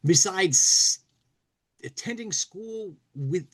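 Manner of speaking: reading a comic story aloud, lightly dramatic. A narrator's reading. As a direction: tell it like a read-aloud tale. Reads Mad story aloud.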